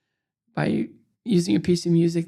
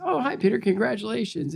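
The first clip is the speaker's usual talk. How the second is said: cordial greeting; 5 semitones higher than usual. Retold or imitated. Roone greets the next medalist.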